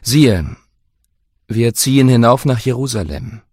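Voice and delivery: grave, measured prophecy; Jesus speaking. Acted. Jesus foretells his death.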